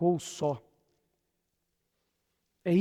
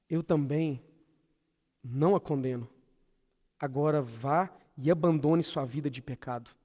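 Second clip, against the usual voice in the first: gentle Jesus; 2 semitones lower than usual. Acted. Preacher voices Jesus to the condemned woman, gentle. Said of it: "Que tom de voz Jesus disse".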